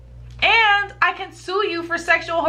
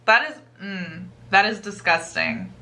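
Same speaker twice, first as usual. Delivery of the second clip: disgusted; 4 semitones lower than usual. Real, not acted. Reacting to porta potty sex.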